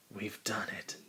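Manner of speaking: hushed whisper. Acted. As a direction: whisper it conspiratorially. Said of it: "they whispered to Duck".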